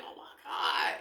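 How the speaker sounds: voiceless, exasperated mock cry; mock-upset whispered exclamation; upset gasp. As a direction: imitate someone upset, all breath. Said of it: "everybody's mad and upset".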